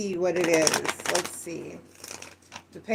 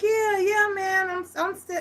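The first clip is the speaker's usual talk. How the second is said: energy on the decline; 10 semitones higher than usual. Retold or imitated. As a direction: start keen, then let the energy drain away. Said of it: "the way he said it, his energy was on the decline".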